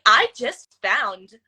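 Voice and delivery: imitated synthetic narrator, drawn out slowly; TikTok text-to-speech voice. Shown as a demonstration. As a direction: mimic a slow automated voiceover. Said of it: "text to speech".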